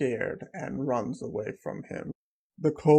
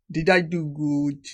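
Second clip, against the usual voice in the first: eager little creature voice; 6 dB louder than usual. Acted. Pet asks MC for praise.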